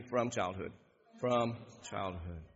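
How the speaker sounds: low, soft grieving answer; hushed father. Shown as a demonstration. Preacher voicing the grieving father, low and hushed. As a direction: let it fall low and quiet. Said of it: "Would you say that back to me?".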